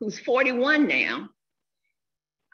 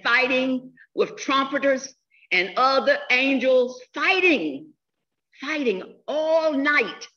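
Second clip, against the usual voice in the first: higher, louder urgent plea from a sick man; urgent retold message; 5 semitones higher, 3 dB louder than usual. Quoting Jack's call after his surgery, urgent and raised. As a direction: press the message home, raised and intense.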